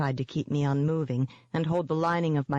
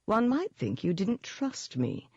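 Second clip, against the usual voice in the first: mock-hurt pout; 6 semitones higher than usual. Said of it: "the demon pouted".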